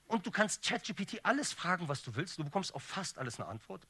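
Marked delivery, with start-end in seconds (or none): 2.4-3.9 the word "fast" picked out with emphasis; stress on FAST. Shown as a demonstration. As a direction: lean on "fast" as the catch. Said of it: "Betonung liegt auf fast".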